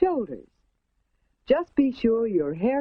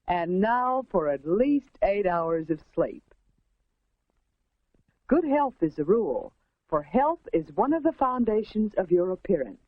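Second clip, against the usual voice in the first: 1950s narrator. A narrator's reading.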